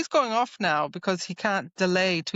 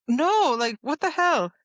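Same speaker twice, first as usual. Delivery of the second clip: mock outrage; 8 semitones higher than usual. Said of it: "you're like".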